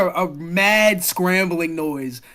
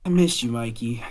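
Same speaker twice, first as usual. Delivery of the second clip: tender; 4 semitones lower than usual. Acted. Hug for returned old friend.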